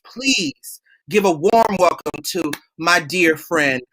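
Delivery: measured podcast announcer delivery; show host introduction. Acted. Host welcoming listeners to the premiere episode, show-host announcer style. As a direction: present the show and its guests.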